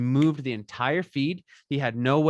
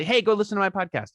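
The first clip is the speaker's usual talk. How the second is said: higher-pitched pushy plug, mildly acted; mock sales pitch; 8 semitones higher, 4 dB louder than usual. Podcaster pitching the show to strangers, pushy. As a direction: imitate an eager self-promoter.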